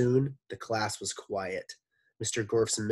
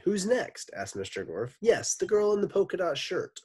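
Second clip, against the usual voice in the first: Mister Gorf voice; 10 semitones higher, 4 dB louder than usual. Acted. Gorf calls the next pupil.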